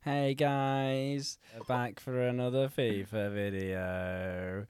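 slow YouTuber greeting, lightly done; YouTube intro voice. Pretend. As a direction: open like a YouTube video, drawn out. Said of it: "Just do your YouTube intro".

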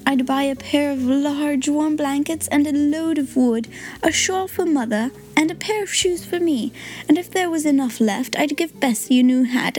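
a hint of a poor girl's wistful hope; poor girl answering her friend, lightly voiced child; Tilly's child voice. Tilly lists her wishes.

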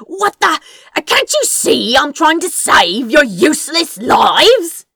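loud, high, exasperated yell while dodging; hollered. Acted. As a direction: bellow it at the guards, indignant and desperate. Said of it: "he hollered".

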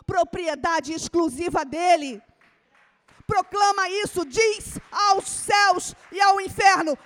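loud, fervent preaching; sermon cry; preaching at full force. Acted. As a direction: proclaim it over the congregation. Preacher proclaiming.

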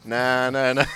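choppy mechanical na sounds; robot voice. Pretend. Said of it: "It's a robot".

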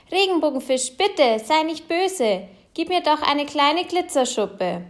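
hoch, langsam und flehend; kleiner bittender Fisch. A narrator's reading. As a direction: bitte sanft drängend wie ein kleiner Fisch. (kleiner blauer Fisch bittet den Regenbogenfisch: hoch und flehend)

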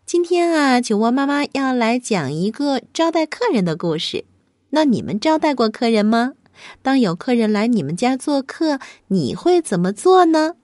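cozy bedtime host voice; fireside storytelling. Acted. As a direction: talk gently to children at bedtime. Host greets children before story.

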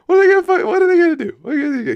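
very high, loud incredulous cry; mock-outraged high shriek; incredulous squeal. Real, not acted. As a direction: squeal it in disbelief. Incredulous rant about walking away.

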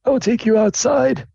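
high-pitched dean beckoning; dean leading. Acted. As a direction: lead the student out firmly. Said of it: "It's like".

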